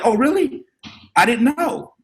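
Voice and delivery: put-on kid voice. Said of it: "I was like".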